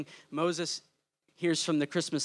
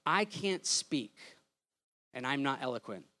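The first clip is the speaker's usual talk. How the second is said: timid Moses; 5 semitones lower, 5 dB quieter than usual. Retold or imitated. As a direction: mumble it like a man who feels small. Moses doubting himself, retold.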